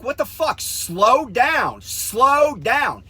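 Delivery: re-enacted alarmed shout, high and loud; freaked-out yelling. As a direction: shout it to stop a speeding driver. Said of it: "I'm just freaked".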